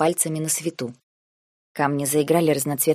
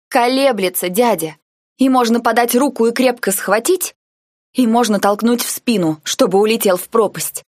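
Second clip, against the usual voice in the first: higher and louder, hammering each point; angry outburst; 5 semitones higher, 5 dB louder than usual. A narrator's reading. Girl arguing hotly with her uncle, angry. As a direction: slam the words down like her palm on the armrest. Girl argues, slams armrest.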